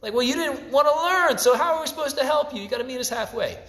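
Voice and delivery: mock scolding reply. Mock reply to lazy student.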